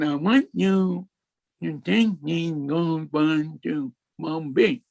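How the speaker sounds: light imitation of a cleft palate, sounds blurred; a hint of cleft-palate speech; imitating cleft palate speech. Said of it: "this is the way he spoke".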